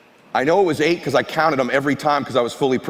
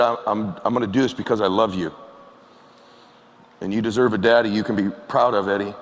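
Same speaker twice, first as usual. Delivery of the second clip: lower, halting, subdued father's words; retold tearful promise; 3 semitones lower than usual. Crying father telling his son why he'll quit, subdued. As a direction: falter gently into a heartfelt promise. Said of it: "And he's crying".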